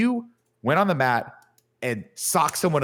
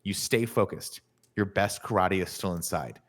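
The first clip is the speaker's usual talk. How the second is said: lightly voiced mentor; 4 semitones lower, 3 dB quieter than usual. Mentor urges his beaten student on, low and measured. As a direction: draw it out with long pauses for weight. Mentor's pep talk acted out.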